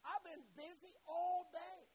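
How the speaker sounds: pretend-fed-up sigh of a long day; hypothetical Jesus brushing off the leper, weary; tired complaint. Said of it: "Jesus could have said".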